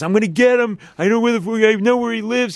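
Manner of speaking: put-on drunk voice. Retelling a drunk man wandering off during a show, imitating a super drunk man. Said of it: "He's super drunk".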